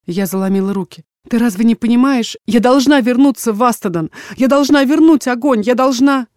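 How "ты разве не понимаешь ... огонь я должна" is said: higher and louder, pleading in a rush; pleading daughter. Acted. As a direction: beg him to let you go.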